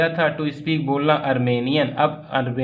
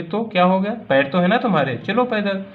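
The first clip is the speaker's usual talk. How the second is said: mock shout; 4 semitones higher than usual. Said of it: "मेरे uncle फिर से चिल्ला कर बोले".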